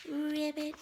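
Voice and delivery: high, playful frog croak; pretend frog ribbit. Character shows friend how to pretend, high frog ribbit.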